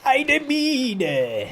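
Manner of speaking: high, loud surprised shout; excited mine callout. Real, not acted. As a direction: call out the mine in alarm. Spots a mine in game.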